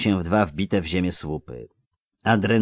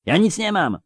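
understated yell, pitched way up; acted scream; 12 semitones higher than usual. A narrator's reading. Cornered boy to robbers, hoping someone hears, crying out high. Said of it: "wrzasnął co sił w płucach".

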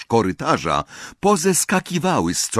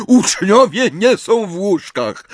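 put-on higher, loud old caretaker cry; shouting; 10 semitones higher, 5 dB louder than usual. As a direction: yell it down the corridor. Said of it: "krzycząc".

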